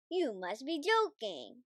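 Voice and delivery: disdainful, dismissive; sniffy driver. A narrator's reading. Driver refusing the Queen, sniffy and scornful. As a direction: sniff at the request. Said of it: "sniffed the driver".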